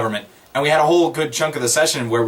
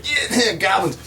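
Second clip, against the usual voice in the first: goblin cheer; 7 semitones higher, slower than usual. Retold or imitated.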